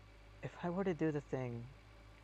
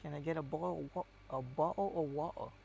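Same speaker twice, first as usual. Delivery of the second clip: cockney English. Retold or imitated. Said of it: "the other type of English".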